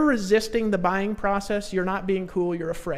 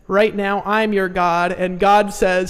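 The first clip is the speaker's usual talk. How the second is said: firm command; 6 dB louder, slower than usual. Retold or imitated. Tour guide ordering her up.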